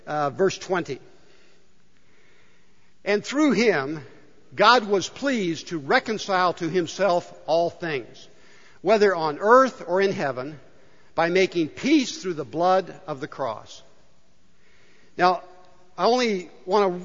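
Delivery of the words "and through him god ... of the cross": scripture reading. Real, not acted. Reads verse aloud.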